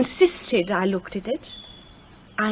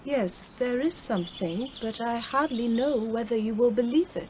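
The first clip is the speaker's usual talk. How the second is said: softer, reluctant admission; hesitant confession; 8 dB quieter than usual. Acted. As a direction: confess it quietly, unsure she'll be believed.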